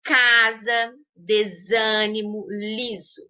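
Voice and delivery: S voiced as Z in Casa, desânimo, liso; S com som de Z. Shown as a demonstration. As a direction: buzz the single S between vowels like a Z in Casa, liso. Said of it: "assume a pronúncia Z". (S com som de Z em Casa, desânimo, liso)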